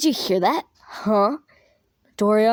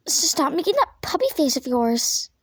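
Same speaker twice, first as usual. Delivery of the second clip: slipping into the wrong voice; wrong character voice; 2 semitones higher than usual. Acted. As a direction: say it in the other character's voice by mistake. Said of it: "Oh, wait, wrong voice".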